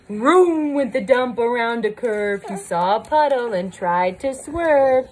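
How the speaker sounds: animated rhyming read-aloud; lively storybook rhyme; picture-book story narration. A narrator's reading. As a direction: tell the truck's mishap with drama for a small child. Reads picture book to child.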